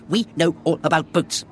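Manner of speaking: "We know all about boats" with firm stress, "We" hit first; very emphatic. Shown as a demonstration. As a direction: punch every word of the line. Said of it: "And then very emphatically".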